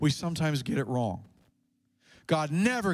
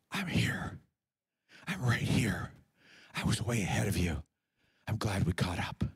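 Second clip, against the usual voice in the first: soft, lower unvoiced whisper of comfort; God's whisper; 8 semitones lower, 4 dB quieter than usual. God whispering comfort to a frightened believer, softly. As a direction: whisper it like a gentle voice close by. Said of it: "to hear his whisper".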